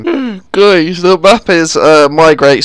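talking through a yawn; words stretched by a yawn. Real, not acted. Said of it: "Sorry, I was yawning there".

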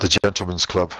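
low-pitched attempt at a posh English accent. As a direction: have a modest go at Glenny's posh English. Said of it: "I'm not as posh as Glenny".

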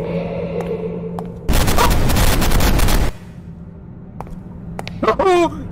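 high startled shriek of laughter. Real, not acted. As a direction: yelp then laugh, very high. Jump scare in horror game.

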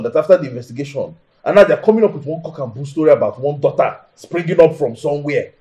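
indignant venting to a friend; worked up. Acted. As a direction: complain heatedly, getting carried away. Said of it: "You're getting too worked up".

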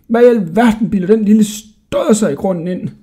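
put-on high, indignant old jailer; furious snorting. A narrator's reading. Jailer fed up with the cheeky boy, high indignant rant. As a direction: rant in outrage. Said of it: "Han fnøs rasende".

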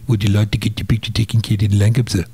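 put-on thick, run-together South African accent. Attendant offering a lion photo to the tourist, South African accent. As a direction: imitate the attendant's garbled South African English. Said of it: "he said in his South African accent".

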